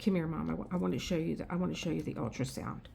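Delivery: softened, sugary greeting; quiet overly nice hello; sweetly nice doctor. Retold or imitated. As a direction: play the suddenly friendly doctor. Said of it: "he could not have been nicer".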